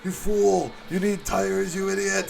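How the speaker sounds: high, loud cartoon villain shout; Skeletor yelling. Gamer mimicking the Pistons captain yelling, cartoon fury. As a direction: scream the insult like Skeletor. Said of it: "Skeletor yelling".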